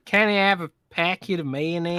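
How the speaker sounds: lightly mimicked American accent; a teasing, mild American-accent imitation; Rand impression. Podcaster showing his co-host how he talks, light mock-American accent. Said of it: "That's my Rand".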